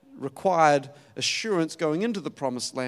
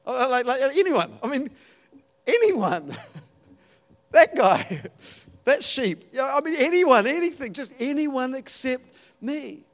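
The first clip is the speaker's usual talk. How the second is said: high, loud, hammed-up desperation; mock panic, anyone at all but me; exasperated; 8 semitones higher, 6 dB louder than usual. Preacher mimics Moses begging off, hammed-up high desperation.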